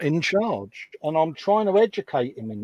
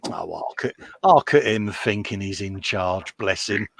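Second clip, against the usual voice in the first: patronise him lightly, a hint of scorn; a touch of a wife's sarcastic pity for her husband; 5 semitones lower than usual. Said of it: "the sarcastic way that she just went".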